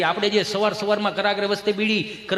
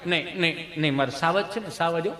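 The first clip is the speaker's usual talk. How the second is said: put-on softer cooing to a child; mild soothing; 3 semitones lower, 5 dB quieter than usual. Mother consoling her son after his fall. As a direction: hush and coo gently.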